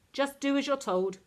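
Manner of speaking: high, loud roar. A narrator's reading. Queenie orders Esther out, loud roar. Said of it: "Queenie roared".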